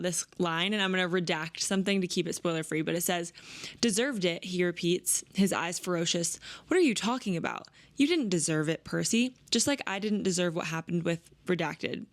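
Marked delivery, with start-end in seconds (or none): 3.8-12.0 gentle read-aloud of a romance passage. Acted. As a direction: read it like sharing a favorite page. Reads favorite quote aloud.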